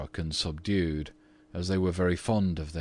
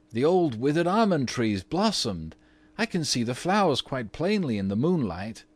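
put-on excited boy; 7 semitones higher, 4 dB louder than usual. A narrator's reading. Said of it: "exclaimed one of the twins".

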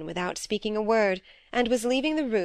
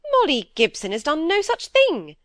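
a louder, indignant denial; 8 semitones higher, 7 dB louder than usual. A narrator's reading. Miss Browning defending Molly against gossip, indignant and louder. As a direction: flatly refuse the slander, louder. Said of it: "said Miss Browning indignantly".

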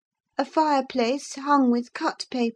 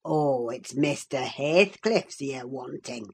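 put-on deep Yorkshire old man, slow, as if he had only now caught on; broad dialect feigned realization; mock discovery; 11 semitones lower, 4 dB quieter than usual. Old servant pretending sudden understanding, slow Yorkshire. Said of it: "cried he, as if making a new discovery".

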